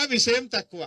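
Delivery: విషయం తక్కువ punched out loud; loud slogan. Shown as a demonstration. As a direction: call it out to the crowd with stress on విషయం. Rally speech, repeated slogan louder.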